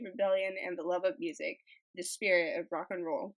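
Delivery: even, measured read-aloud narration; steady storytelling read. Acted. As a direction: read it out like a short documentary story. Reads an article aloud.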